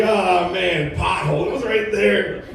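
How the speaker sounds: drawn-out mock lament, rising at the end; acted-out audience regret; mock exasperation. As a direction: groan it like you just missed the obvious. Acting out audience's regret at missed joke.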